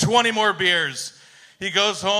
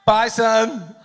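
higher, louder farewell shout; mama buffalo calling; 5 semitones higher, 3 dB louder than usual. Acted. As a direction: call it out like a mother waving off her kid. Punchline: buffalo mother calling goodbye.

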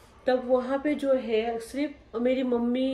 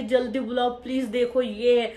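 retold louder scream for help; 2 semitones higher, 4 dB louder than usual. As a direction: yell for help at the woman below. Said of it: "मैं बहुत ज़्यादा चीखने लगी".

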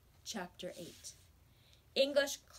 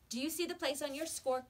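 higher, lively teacher explaining; music teacher; 7 semitones higher, 3 dB louder than usual. Acted. Missus Quaver explains the trill, high and lively. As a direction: coach the flutes brightly. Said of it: "she was saying".

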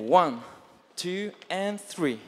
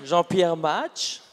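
put-on French accent. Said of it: "okay, with a French accent".

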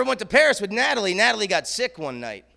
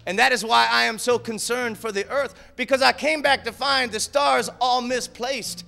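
a rock guitarist's voice. Retold or imitated. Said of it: "Listen to what Jimmy has to say".

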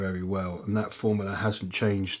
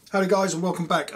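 upbeat greeting; 8 semitones higher, faster than usual. Acted. Upbeat intro greeting to viewers.

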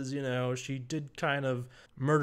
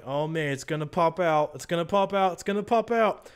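building anticipation; 2 semitones higher than usual. Retold or imitated. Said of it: "You're like".

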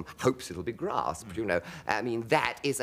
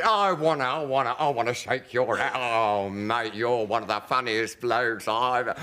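higher, louder, stammering gush; gushing fan; 4 semitones higher, 4 dB louder than usual. Retold or imitated. Driver grabbing Hancock's hand, gushing and loud. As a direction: gush over your hero.

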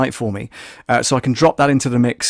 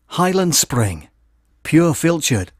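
Scottish accent; 4 semitones higher, slower than usual. Shown as a demonstration. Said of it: "I'm gonna put my best Scottish voice on".

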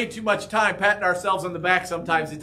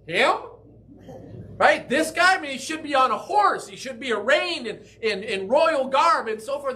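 doubting onlookers; 4 semitones higher than usual. Retold or imitated. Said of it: "they looked at him like".

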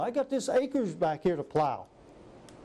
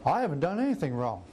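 whiny denial; 2 semitones higher than usual. Retold or imitated. Voicing Saul's whiny denial.

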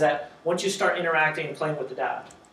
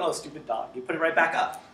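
fond mild scolding; 3 semitones lower, 3 dB quieter than usual. Retold or imitated. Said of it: "what's the first thing you do?".

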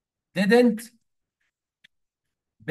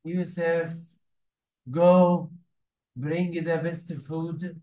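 imitating Khlestakov's airs; 2 semitones higher, much slower than usual. Servant mimicking his master alone, lightly acted pompous orders. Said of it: "وبيكلم نفسه وبيقلد".

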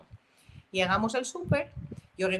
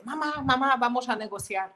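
excited, a little higher, rushing at mom; eager child; 4 semitones higher than usual. Retold or imitated. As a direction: play the impatient kid bursting to ask. Eager son voiced after school.

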